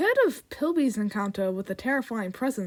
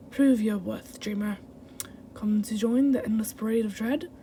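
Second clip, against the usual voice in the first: put-on accented villain. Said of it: "I got the accent going".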